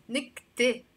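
نكتة with the last vowel as e, not a; final e sound. Shown as a demonstration. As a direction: say نكتة as "nikte", ending in a clear e. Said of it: "with a A".

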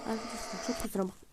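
hoarse after coughing, rushed apology; coughing fit. Real, not acted. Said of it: "Yani öksürüyorum".

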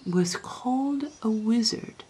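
slow, high, uneasy admission; agitated. A narrator's reading. Chancellor admits what people called the ancestor, agitated. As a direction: let the awkward fact out reluctantly. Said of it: "in an agitated way".

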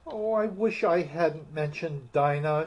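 wistful, sorrowful sigh; melancholy. Acted. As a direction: say it sadly to herself. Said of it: "in a melancholy tone".

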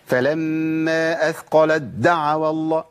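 slow recitation, pressing too hard on the merged د in أثقلت دعوا; over-forced idgham. Shown as a demonstration. Teacher showing what not to do, د overstressed. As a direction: overdo the force on the doubled د of دعوا. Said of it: "القوة ديت والشدة ديت".

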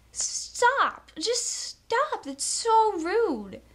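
high firm stop, then slow; scolding. Real, not acted. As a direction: tell them off sharply. Scolding public smokers.

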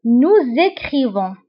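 "Nous écrivons" with a z sound linking nous to écrivons, slowly; slow demo of the liaison. Shown as a demonstration. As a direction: join "Nous écrivons" as nouzékrivon. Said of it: "كنقوموا بلا liaison".

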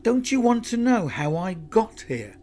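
high-pitched, pressing plea; urgent cry. A narrator's reading. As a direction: stall an attacker with an urgent question. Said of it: "Lucy cried".

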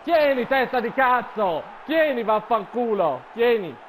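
slow taunting yell; mocking shout. Real, not acted. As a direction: jeer it out slowly.

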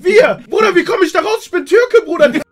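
hammed-up panic. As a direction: wail it as if the police are taking you away. Retelling panic during police arrival.

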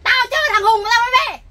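woman shouting back at the officers. Acted. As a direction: yell it back at them. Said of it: "đừng có hét mà vặt nhau đấy nhá".

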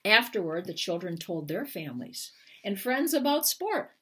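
gentle picture-book narration with lifted pitch; reading to children. Acted. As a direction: read it like bedtime to little kids. Author reads picture book aloud.

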